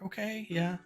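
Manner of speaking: dreading. Retold or imitated. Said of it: "Just dreading it".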